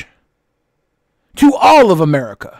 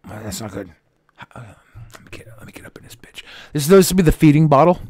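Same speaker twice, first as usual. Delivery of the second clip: lightly voiced guinea pig; 6 semitones lower, 8 dB quieter, faster than usual. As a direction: play a little guinea pig, fast and soft. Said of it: "I'll do a guinea pig impression".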